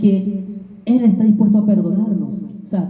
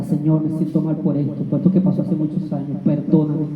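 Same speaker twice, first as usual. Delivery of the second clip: humble prayer; 5 semitones lower than usual. Retold or imitated. Believer praying alone, kneeling.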